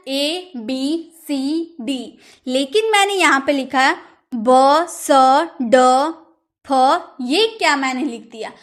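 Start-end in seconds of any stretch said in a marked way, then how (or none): 0.1-2.2 "ए बी सी डी" slowly, letter by letter, softer; letter names. Shown as a demonstration. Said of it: "ऐसे पढ़ रहे हैं ना". 4.3-7.2 "ब स ड फ" as spaced letter sounds, not names; phonic sounds. Shown as a demonstration. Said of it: "लेकिन इसे बोला जाता है ब".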